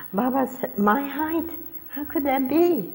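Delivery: high, wondering disbelief; astonished. Retold or imitated. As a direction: gasp it out in amazement. Astonished at Baba's height.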